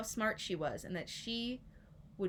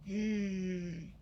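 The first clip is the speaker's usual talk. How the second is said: small mad hmm. Shown as a demonstration. Showing children a small mad face, grumpy hmm. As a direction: demo a little cross hmm. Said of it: "show me a small mad face".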